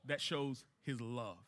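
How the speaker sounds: soft statement. Shown as a demonstration. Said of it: "what does that show".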